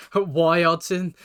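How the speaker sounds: slow "Why Hodgson." with the R of Roy turned into a W; a slow, lightly mocking take on a manager who can't say R; mimicking his R's. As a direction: say "Why Hodgson." slowly, making Roy sound like "Why". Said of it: "He calls, he calls himself".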